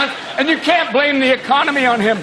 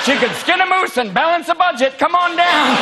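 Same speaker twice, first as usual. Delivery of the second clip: game show announcer; 6 semitones higher than usual. Retold or imitated. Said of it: "game show announcer intro".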